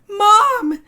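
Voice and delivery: high, loud yell for mom; excited child screams for mom, high and loud. Acted. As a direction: shout across the house. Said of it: "screamed Elda".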